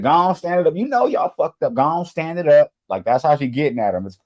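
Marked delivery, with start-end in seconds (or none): 0.0-2.7 mock auntie order. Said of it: "she said".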